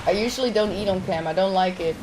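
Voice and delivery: eating while talking; talking through a mouthful; mouth full. Real, not acted. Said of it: "I'm talking with my mouth full".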